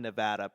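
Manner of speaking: "Nevada" with a broad ah, neh-VAH-duh; outsider pronunciation. Shown as a demonstration. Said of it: "pronounce Nevada as Nevada".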